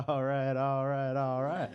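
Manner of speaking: slow, laid-back stoner drawl, lightly done; lazy, relaxed "all right" like a stoned surfer; Matthew McConaughey drawl. Retold or imitated. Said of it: "like getting rear ended by Matthew McConaughey".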